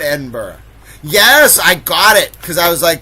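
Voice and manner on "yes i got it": loud, high burst of delight; crowing "yes" with raised pitch; triumphant. Real, not acted. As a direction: celebrate a winning guess. Celebrates a right answer.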